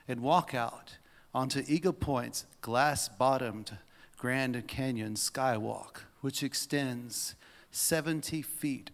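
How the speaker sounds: measured, spaced-out literary reading; dramatic read-aloud. Acted. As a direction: let each descriptive word land after a pause. Reads a written piece aloud.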